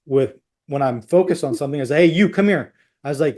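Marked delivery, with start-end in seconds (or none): 2.1-2.7 sharply intense, higher-pitched summons; intense command. Retold or imitated. Panicked husband flags down a nurse, intense and insistent. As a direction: urgently demand attention, voice raised in pitch. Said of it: "I'm very intense with".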